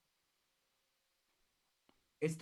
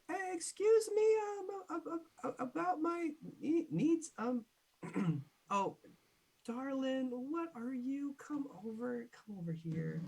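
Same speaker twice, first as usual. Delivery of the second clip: much higher, sing-song darling-calling shopkeeper; flirty shopkeeper voice; 11 semitones higher than usual. Acted. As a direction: coo at the stranger to come closer. GM voices a shop NPC.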